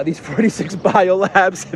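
laughing through the words in mock disbelief; sarcastic laugh. Real, not acted. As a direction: let a scoffing laugh break into it. Sarcastic mocking of official claim.

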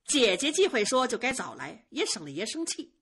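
jealous, mocking jab; sneering. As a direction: spit sarcasm with a cold scoff. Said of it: "冷笑着说".

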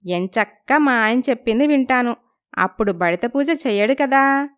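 mock-scold the old lady playfully; cheeky young girl. Lalitha teases the neighbour grandma, high cheeky voice.

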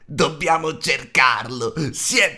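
loud, slow, drawn-out creature wail; disperazione di creatura. A narrator's reading. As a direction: wail it out in desperation. Gollum desperate for lost treasure. (lamento forte e disperato di creatura)

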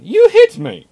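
shrieked high and loud; very high, very loud mock outrage; indignant ship sister. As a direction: squeal it like a wronged sibling. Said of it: "the sister going".

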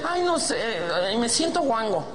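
high-pitched camp caricature; mock-effeminate whine; effeminate patient. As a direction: complain to the doctor in a high, fussy voice. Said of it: "llega un putito".

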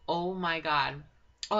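drawn-out excited exclamation. Real, not acted. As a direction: stretch it out excitedly. Excited build-up.

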